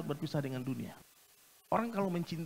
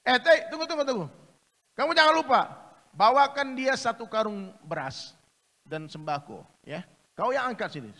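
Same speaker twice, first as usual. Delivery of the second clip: calling out loud; 5 semitones higher, 7 dB louder than usual. Acted. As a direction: shout after him to come back. King calls his guard back.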